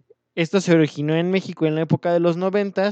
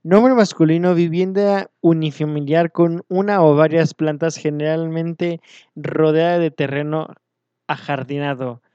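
louder dictionary read-out, easing at the end; reading a definition; 6 dB louder than usual. Acted. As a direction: read it out loud like an official definition. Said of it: "Dice ese, el señor Google".

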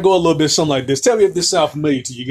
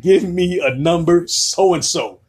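pleading customer; 5 semitones higher than usual. Retold or imitated. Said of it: "I just said".

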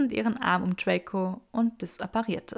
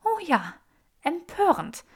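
higher, fast, hammed-up indignation; mock-shocked, higher and fast; mock outrage; 6 semitones higher than usual. A narrator's reading. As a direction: play the scandalised prude in jest.

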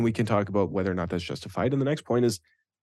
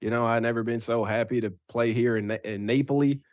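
a hint of Georgia Southern; Southern accent. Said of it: "Southern Georgia accent".

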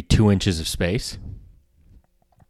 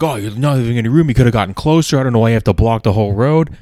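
fast, louder whiny complaint; mock angry driver; 3 semitones higher, 4 dB louder, faster than usual. The driver repeating his gripe, fast and annoyed. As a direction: rattle off the complaint as the irritated driver. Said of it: "he's going back like".

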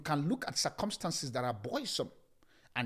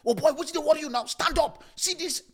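high, loud panicky Nigerian pidgin; 11 semitones higher, 6 dB louder than usual. Acted. Disciples waking Jesus in panic, loud Nigerian pidgin. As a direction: harass him in Nigerian pidgin. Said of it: "How do I get into Nigerian language?".

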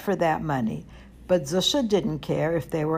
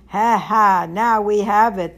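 taunting; 7 dB louder than usual. A narrator's reading. Guests taunt Zusha with money.

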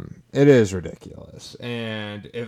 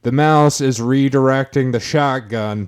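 lawyer addressing the jury; 3 semitones higher, 4 dB louder than usual. Pretend. Mock courtroom closing argument.

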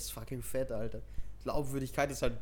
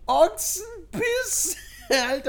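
laughing disbelief; 13 semitones higher, 5 dB louder, much slower than usual. Real, not acted.

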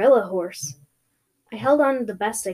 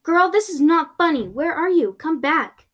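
higher, insistent calling out; yelling; 7 semitones higher, 4 dB louder than usual. Acted. To a friend who vanished in the clearing, yelling. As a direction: shout for someone to return. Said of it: "I yelled".

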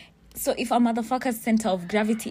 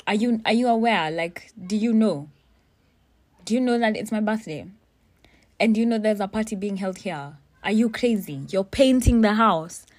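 raised, higher-pitched indignant questioning; indignant telling-off; 3 semitones higher, 5 dB louder than usual. Retold or imitated. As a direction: confront them in outraged disbelief. Acted telling-off of the painters.

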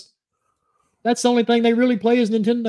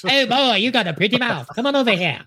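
mock English accent; 4 semitones higher than usual. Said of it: "he's got more of an English accent".

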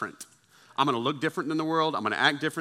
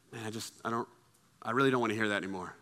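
reluctant refusal; 3 semitones lower, 6 dB quieter than usual. Acted. Acted reluctant refusal of gossip.

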